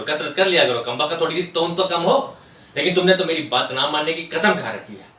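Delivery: nagging running commentary. Acted. Wife berating husband about his paunch, nagging. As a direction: imitate a wife's exasperated nagging. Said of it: "उनकी वही running commentary चालू".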